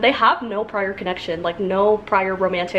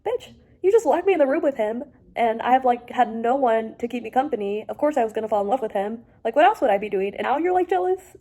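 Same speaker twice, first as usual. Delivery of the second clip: higher and louder, outraged at a character; indignant rant; 4 semitones higher, 3 dB louder than usual. Real, not acted. Reader scolding the possessive love interest, indignant and loud. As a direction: tell him off, fully fed up.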